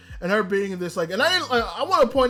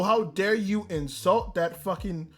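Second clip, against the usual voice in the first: slow, drawn-out indignation, building to the insults; angry tirade; slower than usual. Retold or imitated. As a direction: stretch each insult out in re-enacted outrage. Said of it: "I was so angry".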